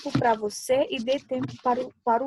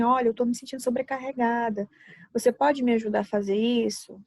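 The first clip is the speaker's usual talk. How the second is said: even, gentle plain voice; the better way to ask a spouse for help; calm request. Shown as a demonstration. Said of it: "você pode falar assim".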